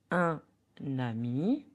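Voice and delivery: UN AMI as un, pause, nami; teacher's model of "un ami", N link; liaison model. Shown as a demonstration. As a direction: say "un ami" in two parts, N starting "ami". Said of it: "Listen and repeat after me".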